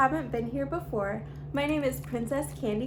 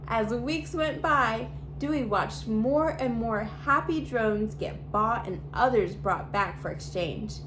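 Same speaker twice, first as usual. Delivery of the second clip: put-on lively read-aloud storytelling for kids; storybook reading. A narrator's reading. YouTube host reading a picture book to children, bright storytelling. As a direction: read the story to little viewers, expressive and clear.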